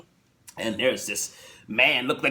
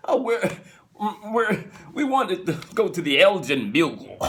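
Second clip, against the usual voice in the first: excited wife; 6 semitones higher than usual. Retold or imitated. Wife answers photographer.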